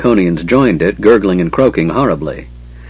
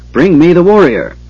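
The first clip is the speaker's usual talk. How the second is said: high, loud wailing dragon cry; shrieking dragon; 9 semitones higher, 5 dB louder than usual. Acted. Dragon shrieking its order to the guards, high and loud. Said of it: "shrieked like a wailing wind".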